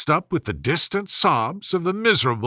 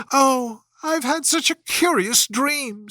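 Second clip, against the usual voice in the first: much higher, bright wonder; eager Alice; 9 semitones higher than usual. A narrator's reading. Alice waking to her sister, eager and high. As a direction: burst out with the news. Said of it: "said Alice".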